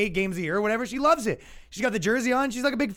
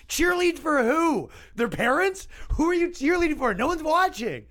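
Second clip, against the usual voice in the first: high, loud incredulous mockery; mocking disbelief; 9 semitones higher, 3 dB louder than usual. Real, not acted. To the audience, loud mocking disbelief. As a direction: scoff at the very idea, loudly. Mocking men cheerleading women's sports.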